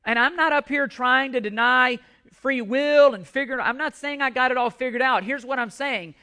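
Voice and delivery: ordinary delivery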